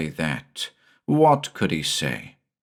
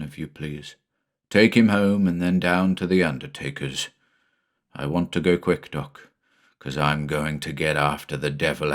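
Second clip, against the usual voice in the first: low, grim farmer's voice, lightly voiced; a hint of a rough, determined neighbour; grieving father Quinlan; 3 semitones lower than usual.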